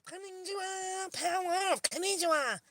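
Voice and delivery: high mock device chatter; headphone lady voice. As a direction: rattle it off like the nagging headphone lady. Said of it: "She be like".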